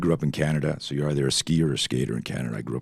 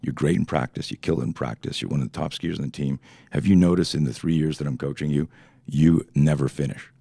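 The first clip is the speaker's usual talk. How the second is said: caring coach. Retold or imitated. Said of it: "put his arm around me and said".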